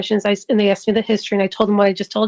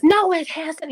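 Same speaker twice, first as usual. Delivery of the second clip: retold yell; 6 semitones higher, slower than usual. Son objecting to doctor through the window, mock yell. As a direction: imitate a son calling out a contradiction. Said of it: "He's yelling through the window".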